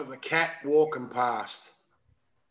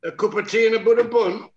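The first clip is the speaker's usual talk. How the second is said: hammed-up British tea-party accent, a bit louder; mock Pommy accent; 4 semitones higher, 5 dB louder, faster than usual. Showing mates what a Pom sounds like, mock British accent. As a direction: put on a cartoon British accent for tea and bun. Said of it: "That's Pommy, not Australian".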